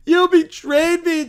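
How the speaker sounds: loud, high hammed-up accusation; shouted betrayal. Villain screaming at the chair, loud. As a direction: yell it at the traitor.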